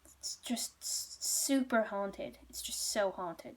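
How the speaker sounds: slow, halting retold confession; reluctant admission. Innkeepers admit why they moved, reluctant. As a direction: admit it haltingly, stretching the words.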